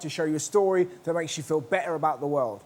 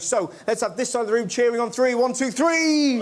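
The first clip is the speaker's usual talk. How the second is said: loud crowd-warmup call; rally the room to cheer; 5 semitones higher, 4 dB louder than usual. Real, not acted. Host whipping up the audience, loud call.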